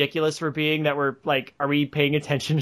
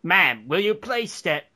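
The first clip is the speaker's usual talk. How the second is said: scared timid voice; 2 semitones higher than usual. Retold or imitated. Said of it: "I spoke in the voice of the biggest scared pussy".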